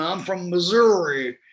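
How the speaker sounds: lightly imitated Southern drawl; a touch of Missouri twang, imitated. Actor quoting his co-star's Southern roots, imitated Missouri drawl. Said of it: "that Southern, uh, you know, Missouri".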